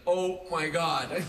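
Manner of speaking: stretched-out "oh my God"; drawn-out stunned delight; slow amazed gasp. Retold or imitated. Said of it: "she's like".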